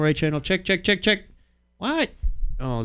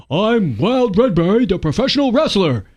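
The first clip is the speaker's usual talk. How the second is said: proud wrestler intro; 6 semitones higher, 3 dB louder than usual. Retold or imitated. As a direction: announce yourself like a proud wrestler. Wrestler introduces himself in joke.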